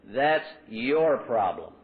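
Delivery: "your" leaned on, very slow and drawn out; slow cutting emphasis on "your"; pointed phrase. Shown as a demonstration. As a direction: spell out "That's your problem" word by word. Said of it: "It's a very simple little phrase".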